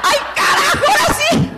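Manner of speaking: very high, half-laughing, half-crying yelp; a tearful scared laugh before her first talk; nervous outburst. Real, not acted. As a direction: blurt out the panic with a cracked laugh.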